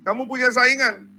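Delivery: acting out an agitated follower; urgent report. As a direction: raise the voice to alert him. Acted disciples alarm John about rival.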